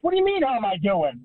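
fired-up fan venting about the team; furious. Retold or imitated. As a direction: let the exasperation climb. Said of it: "I'm absolutely furious".

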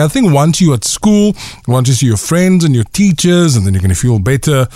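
gentle. Real, not acted. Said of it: "You never sound this gentle with us".

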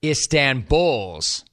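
"Istanbul's" drawn out slowly, ending on a clear plural s; mock-quoted mispronunciation. Host quoting Pierce to listeners, slow mock-quote of "Istanbul's". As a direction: stretch out "Istanbul's" with the added s. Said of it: "He tells the viewers that she's from, quote".

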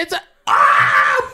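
pain cry. Real, not acted. Second piercing hurts.

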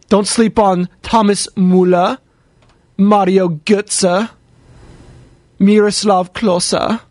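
very slow mock German pronunciation; German accent. Host listing German players to chat, in a German accent. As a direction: stretch out each name in a put-on German accent. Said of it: "I always get into my German, uh, accent".

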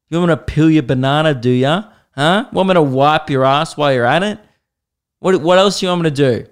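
mock outraged ball girl, snapping back; angry ball girl. Ball girl telling off the player, mock outraged. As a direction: play the offended ball girl giving him a serve. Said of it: "she was so angry".

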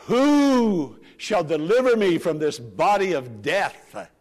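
slow, loud, desperate plea; crying out. Retold or imitated. Paul crying out to be delivered, slow loud plea. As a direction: call it out like a man begging for rescue. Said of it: "And then Paul cries out".

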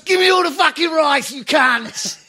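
very high, loud imitated hold-up yell; mock robber's shout. Friend storms a Chinese takeaway with a shotgun, mock robber's shout. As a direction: scream the demand as a hammed-up crazy robber.

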